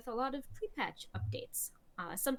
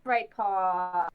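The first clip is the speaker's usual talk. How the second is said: louder warning call to a pet; scolding the cat; 5 semitones lower, 8 dB louder than usual. Real, not acted. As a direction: warn the cat off.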